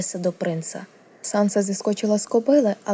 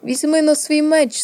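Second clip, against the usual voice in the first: high, louder, slow command; imperious order; 8 semitones higher, 5 dB louder than usual. A narrator's reading. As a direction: order an inferior to arm himself. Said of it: "велів принц".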